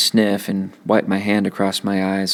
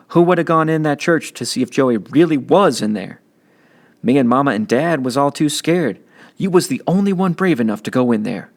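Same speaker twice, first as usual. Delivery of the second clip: put-on older brother's streetwise lecture, a bit higher and livelier; big brother setting him straight; teen big brother; 6 semitones higher than usual. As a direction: talk down to your kid brother, tough but caring. Byron driving home a point.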